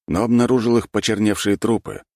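ordinary delivery, nothing marked

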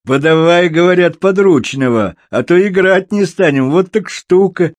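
high, loud excited squeal; cobbler's high-pitched jeering cry. A narrator's reading. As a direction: squeal it out from the crowd. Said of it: "взвизгнул в толпе сапожник".

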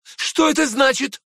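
indignant outcry in return; cried out. Acted. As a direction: fire the question back loudly. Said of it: "вскричал я тоже".

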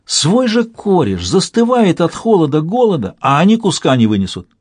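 milk it like a sentimental ringleader; quavering sentimental plea. A narrator's reading. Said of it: "Голос таракана дрогнул". (сентиментально, с дрожью в голосе)

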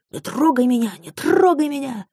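high, put-on voice yelling; hammed-up brawl yell. A narrator's reading. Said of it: "орали".

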